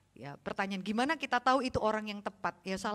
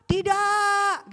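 put-on defiant child; 10 semitones higher, 9 dB louder than usual. Kids defiant reply.

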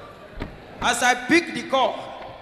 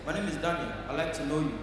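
polite; 6 semitones lower, 9 dB quieter than usual. Acted. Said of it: "Yoruba man, they so polite".

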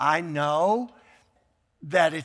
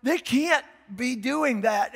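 much higher no way, then slow denial; disbelief; 6 semitones higher, slower than usual. Retold or imitated. Grandfather answering his grandson, incredulous. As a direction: refuse to believe it. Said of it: "I said".

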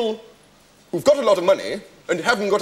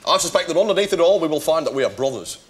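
put-on lower, earnest northern English accent at the end; borrowed northern English accent; 4 semitones lower than usual. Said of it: "this swapping of accents".

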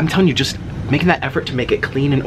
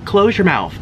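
higher, insistent scold; exasperated scolding; 6 semitones higher than usual. Retold or imitated. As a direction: tell her off firmly. Scolding her over the apology.

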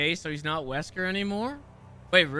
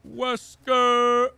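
high, loud, drawn-out name call; mock dramatic shout; 5 semitones higher, 6 dB louder than usual. Player calling out Wesker, mock dramatic shout. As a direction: cry out the villain's name.

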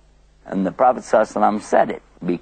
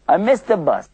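mock dismay, a bit higher; upset; 5 semitones higher than usual. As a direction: pretend to groan over the missed bus. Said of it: "Sometimes people get upset".

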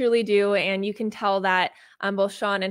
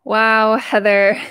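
moved wow; 11 dB louder, much slower than usual. Real, not acted. Host reacts after moving session.

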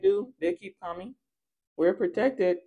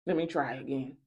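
lower, softer, fretful mock practitioner; mimicking rival practitioner; 4 semitones lower, 4 dB quieter than usual. Rival practitioner retrying a spell, mimicked lower. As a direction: fumble it like a flustered witch. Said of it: "I said".

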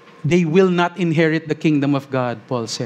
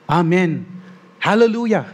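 proclaiming; 3 semitones higher than usual. A narrator's reading.

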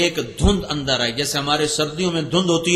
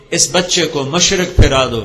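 preaching; 2 semitones lower, 4 dB louder than usual. Acted. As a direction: proclaim it like a pulpit preacher. Preaching the heavenly proclamation. (زور دار خطیبانہ انداز)

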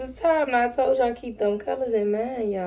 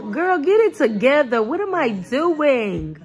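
higher, louder mock telling-off of herself; exasperated with yourself, half joking; playful self-scolding; 4 semitones higher, 4 dB louder than usual. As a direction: give yourself a playful talking-to. Scolds herself over her slow talk.

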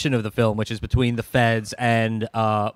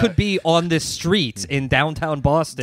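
puzzled; 4 semitones higher than usual. Acted. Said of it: "scratching their heads going".

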